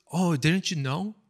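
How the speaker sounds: acted coy taunt, lilting up at the end; feigned surprise. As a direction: play the envious rival feigning surprise. Envious rival taunts main girl.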